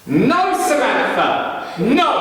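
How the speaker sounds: high, drawn-out cry of command; tracker's acted shout. Man warning off an approaching lion, acted high shout. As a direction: call it out long and high, as if to a lion. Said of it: "Pretend I'm the man".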